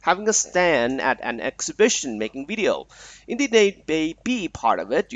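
reads an English text aloud to the student, steady pace; reading aloud. Acted. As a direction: read the passage out like a lesson text. (อ่านบทความภาษาอังกฤษให้นักเรียนฟัง)

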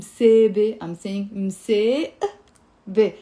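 slow, drawn-out مسابة; slow demonstration. Shown as a demonstration. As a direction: say مسابة slowly, syllable by syllable. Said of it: "Notice how I said it faster now".

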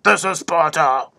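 hammed-up Spartan declaration; mock film battle cry. Quoting the Spartan king's line, mock-heroic delivery. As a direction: imitate the movie line, stretching the last word. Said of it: "would have been a better than".

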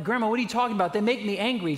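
put-on exasperated teen self. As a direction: argue back like a frustrated teen, half-hammed. Teen arguing with grandma.

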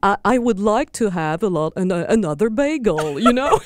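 show-off British English, drawn out at the end; British accent. Shown as a demonstration. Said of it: "Je parle avec un accent britannique".

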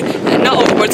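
ordinary talk

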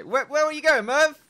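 high, loud call after a runaway parrot; mock plaintive call. Player calling after the parrot Merv, high and loud. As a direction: shout after him like a jilted owner. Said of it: "I would say".

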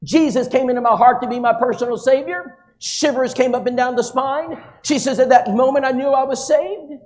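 lightly voiced woman, sincere; a hint of Sheila. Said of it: "And she said".

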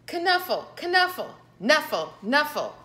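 high then fading repeated knuffle; a little girl wailing for her bunny; mock-crying knuffle. The morning did not go well.

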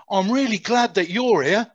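put-on Cockney accent. Prisoner glad to be captured, in a broad Cockney accent. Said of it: "in the biggest Cockney accent".

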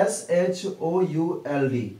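slow letter-by-letter spelling. Shown as a demonstration. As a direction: spell it out slowly. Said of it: "आप पढ़ते हैं". (धीरे-धीरे अक्षर बोलना)

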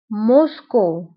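موسكو as French mos-cou, falling end; French-style موسكو, two separate syllables; French pronunciation. Shown as a demonstration. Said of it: "بالفرنسية أيضًا".

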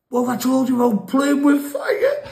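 high, loud scolding mum; angry mum. Retold or imitated. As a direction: tell the kid off hard. Mum smacks him, telling off.

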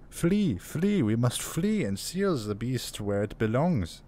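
a pitch jump on "Flee, flee" in a hint of French; mock the crazed officer in a light French accent; bit of French. Officer's mad refrain voiced in a light French accent. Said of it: "That was a little bit of French".

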